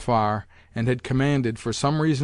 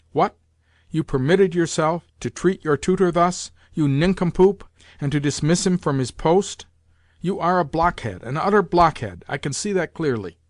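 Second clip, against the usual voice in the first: a higher, louder angry dressing-down; scolding; 5 semitones higher, 3 dB louder than usual. Acted. Grandmother scolding the General as a blockhead, angrily. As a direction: berate him like a furious old mother. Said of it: "turned sharply to the General".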